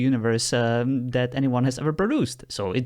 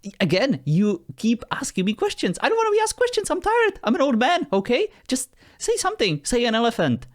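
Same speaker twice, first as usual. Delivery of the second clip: much higher, whiny mock complaint; mock weary exasperation; 12 semitones higher than usual. User pretends to be a tired old man scolding the AI, high whiny.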